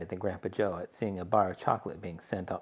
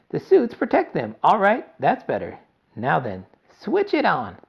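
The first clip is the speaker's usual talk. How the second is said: higher, louder bossy showman; eccentric inventor giving orders; 9 semitones higher, 8 dB louder than usual. A narrator's reading. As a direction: order everyone about in a high, loud voice. Wonka commands the Oompa Loompas.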